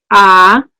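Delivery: wide open mouth A, held loud. Shown as a demonstration. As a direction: demo vowel A with mouth fully open. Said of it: "el fonema A, cuando lo expreses".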